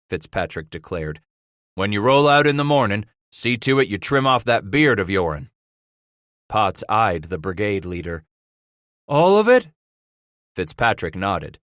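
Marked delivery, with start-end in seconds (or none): 1.8-5.5 gruff frontier boss giving an order; lightly voiced leader laying down the law; brigade leader voice. Fitzpatrick gives orders to trappers. 9.1-9.7 high, loud disbelieving question; can't believe he means the whole beard; surprised. Acted. Potts incredulous at beard order.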